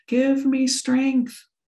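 loud, high, belted-out cry. Retelling Granny sitting up with a broken hip: imitating someone belting out. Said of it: "she just belted out".

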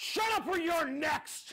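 play-acted high, snarling, threatening soldier voice. Retelling how a soldier scolded the speaker, in a snarly voice. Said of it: "in a snarly voice and said".

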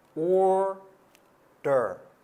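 put-on American accent, strong R.

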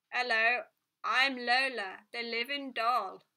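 loud, tinny, metallic voice like through a telephone. Narrator reading a talking doll greeting a girl: metallic telephone voice. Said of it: "said in a metallic voice that sounded as if it were issuing from a telephone".

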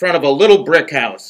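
ordinary delivery

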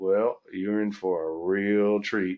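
easy, slow, stretched-out Southern drawl. Recalling an early meeting, quoting what Greg said about a presenter, in Greg's Southern drawl. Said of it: "Greg in the Southern drawl was like".

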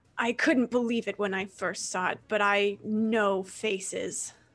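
snarling, menacing, words pushed through teeth. Game master voices a creature going for Quill again, snarling. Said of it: "he snarls and says".

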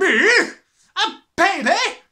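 high, loud, indignant shout of disbelief. Reading a story, a woman answering a boy's remark, shouting. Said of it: "Shouted the Trunchbull".

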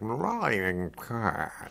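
put-on purring, sultry voice. Showing how a thought sounds: a famous singer's voice. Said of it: "in a kind of singer's voice".

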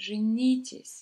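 женитесь with emotional stress on second syllable -ни-. Teaching the phrase for get married, stress on second syllable of женитесь. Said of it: "So stress on the second syllable almost as you exhale".

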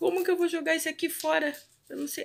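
very high, fast, nervous laughing. After breaking glass while mopping the floor: nervous laughing. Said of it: "Eu tô rindo de nervoso".

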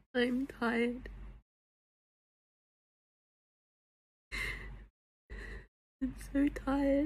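words squeezed out between sobs, tearful and crying. A woman on the internet squeezing out tears: crying while talking. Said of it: "Squeezing them tears out".

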